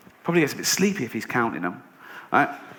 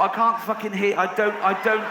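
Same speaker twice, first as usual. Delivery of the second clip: higher-pitched exasperated stammer; protesting egg; 6 semitones higher than usual. Acted. Egg unable to hear the warning, exasperated. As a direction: protest helplessly as a baffled egg.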